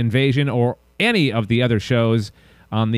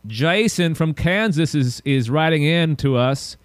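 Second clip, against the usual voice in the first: put-on Southern accent; 3 semitones higher than usual. Host announcing a listener's letter, mock Southern accent. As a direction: read it with a playful Southern accent. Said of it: "That's more of a Southern accent".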